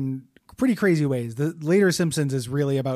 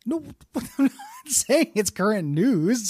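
high, laughing self-defence; helpless, higher-pitched laughing denial; laughing protest; 6 semitones higher than usual. Real, not acted. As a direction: protest through real laughter. Laughing self-defence when challenged.

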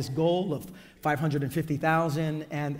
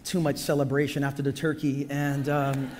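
lost voice, rough and strained; hoarse voice. Real, not acted. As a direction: speak through a worn-out, hoarse voice. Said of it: "as you can hear already, I've lost my voice".

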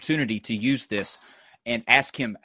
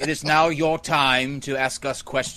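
slow mock-Rael accent; mimicking Rael's accent. Host addressing the guests as Rael to mock him, slow imitated accent. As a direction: draw the words out in an imitation of Rael's odd accent. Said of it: "just going to talk like this".

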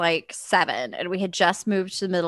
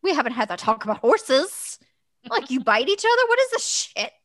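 rising outrage; 4 semitones higher than usual. Retold or imitated. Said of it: "I'm like".

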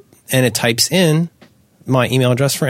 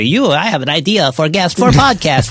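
mock pitch; 5 semitones higher than usual. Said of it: "you know, to say".

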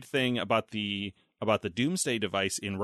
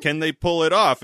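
loud, raised-pitch question through a laugh; questioning president; 7 semitones higher, 10 dB louder than usual. Retold or imitated. President asking his general, mock incredulous. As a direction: ask it as the worried president, half laughing.

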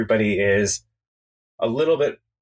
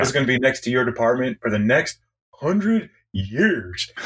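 a hint of a gruff working man; lightly voiced Sewage Joe. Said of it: "I love his voice and the way he talks".

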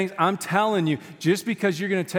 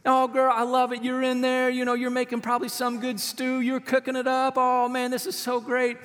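heartbroken Jesus; 6 semitones higher than usual. Retold or imitated. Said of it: "He's like".

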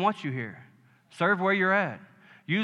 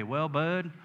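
softer, gentle mild rebuke; a hint of a kind pastor saying no; Pastor Paul; 5 dB quieter, slower than usual. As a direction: lightly voice the old pastor. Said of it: "like Pastor Paul used to say".

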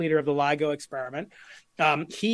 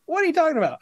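higher, incredulous question; retold disbelief; 11 semitones higher, 4 dB louder, much faster than usual. Barry hearing about Einstein, asks in higher disbelief. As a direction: play a laureate caught off guard, higher.

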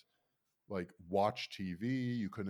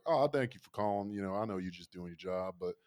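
folksy, lightly voiced Southern customer; Southern accent. Farm owner excusing the operator, mild Southern accent.

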